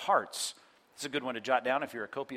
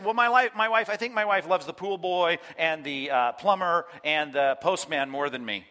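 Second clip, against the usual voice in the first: raised, louder voice of a wronged husband; mock aggrieved husband; 4 dB louder than usual. Pastor voices a jealous husband, mock aggrieved. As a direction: complain loudly about a wife's affections. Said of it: "if I said".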